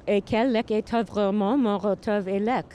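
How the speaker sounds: nom said as mɑ, reversed French sounds; French backwards. Shown as a demonstration. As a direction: reverse "Quel est votre nom?" phonetically. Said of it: "Just in French".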